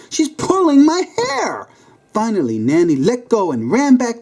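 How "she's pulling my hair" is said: high, strained panic; stressed. A narrator's reading. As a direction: cry out while she grips you. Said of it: "he stressed".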